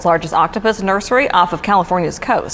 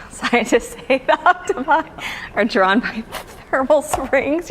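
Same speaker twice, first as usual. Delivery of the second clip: anchor stifling giggles; 3 semitones higher, 4 dB quieter than usual. Real, not acted. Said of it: "You're making me laugh".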